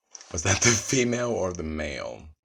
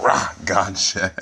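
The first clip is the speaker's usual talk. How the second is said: mock pounce; 7 dB louder, slower than usual. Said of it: "I'm like".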